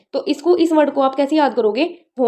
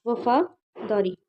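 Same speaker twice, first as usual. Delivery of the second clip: slow dictation; 3 semitones lower, 6 dB quieter, much slower than usual. Shown as a demonstration. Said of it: "fidelity का मतलब होता है वफादारी".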